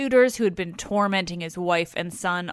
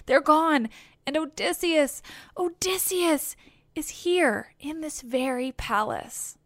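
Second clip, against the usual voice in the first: excited; 6 semitones higher than usual. Acted. Nurse blurting joyful news.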